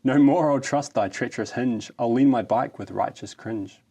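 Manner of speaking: grand, hammed-up ode reading; mock-solemn ode to a kickstand; mock-heroic poem recital. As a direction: declaim it like solemn verse.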